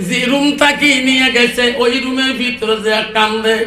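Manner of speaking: normal talking voice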